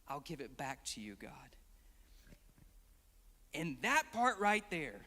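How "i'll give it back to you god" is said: very soft, low near-whisper; hushed surrender. Retold or imitated. Hannah giving the child back to God, hushed and low. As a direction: surrender it to God under your breath.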